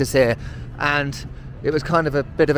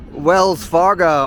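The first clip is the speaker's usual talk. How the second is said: put-on slow, louder American accent on the name; 2 semitones higher, 6 dB louder, much slower than usual. Vlogger playing at an American while touring, American accent. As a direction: drawl the bank name like an American. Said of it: "I'm gonna stop doing the American accent right now".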